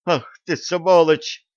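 high, loud furious yell; furious shout. A narrator's reading. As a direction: scream at the thug. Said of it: "начала пинать она бандита".

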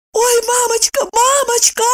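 high lamenting cry; lamenting wail. A narrator's reading. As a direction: wail it like a frightened old woman. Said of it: "запричитала опять Евдокия". (запричитать высоко и жалобно)

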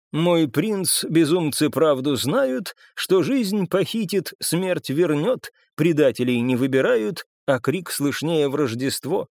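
slow recitation, lifted in pitch at the start; декламация цитаты. A narrator's reading. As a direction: recite it line by line, drawing each one out. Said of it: "Процитировав, видимо, ещё один свой перевод". (декламируя стихи, медленно, с паузами)

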